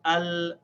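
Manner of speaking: "al" with clear opening a and long held l; stretched demo of "al"; hamza pronounced. Shown as a demonstration. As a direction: hold the l of "al". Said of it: "so we pronounce it".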